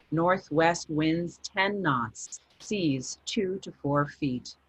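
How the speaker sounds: understated nautical log read; log entry reading. A narrator's reading. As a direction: read the coordinates like a captain's logbook. Reads Michael's ship log aloud.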